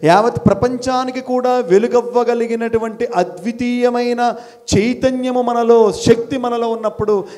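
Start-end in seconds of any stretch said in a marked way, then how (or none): 0.0-5.9 slower, louder stressed delivery; emphatic teacher stressing a key word; underlined emphasis. Shown as a demonstration. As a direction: lean into each word to underline it. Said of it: "I underline this word".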